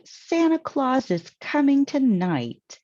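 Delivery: loud, high excited announcement; calling out excitedly. A narrator's reading. Amy calls out the news, loud and excited. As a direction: shout the news across the yard. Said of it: "she called".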